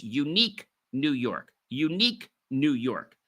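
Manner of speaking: "unique New York" with each word set apart; careful tongue-twister drill on "unique New York"; concentrated articulation. Shown as a demonstration. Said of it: "put a strong concentration on the words".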